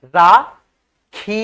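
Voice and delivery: राखी, last vowel drawn out slowly; stretched long ई. Shown as a demonstration. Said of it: "राखी खींच करके उच्चारण है". (राखी को खींचकर, धीरे बोलना)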